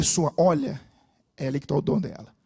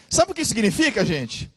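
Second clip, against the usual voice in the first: raised, louder question to the crowd; rousing preacher call; 7 dB louder than usual. Real, not acted. Preacher rousing the congregation, raised loud. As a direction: lift it up to stir the church.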